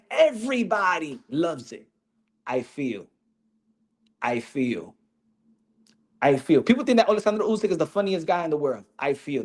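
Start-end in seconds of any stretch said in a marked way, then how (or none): 2.5-6.6 a hint of Usyk's lower, halting accent; imitating Usyk. Vlogger imitating Usyk's catchphrase, lightly voiced lower. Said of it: "He only has to say two words". 9.0-9.4 a hint of Usyk's lower, halting accent; imitating Usyk. Vlogger imitating Usyk's catchphrase, lightly voiced lower. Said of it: "That's all he says".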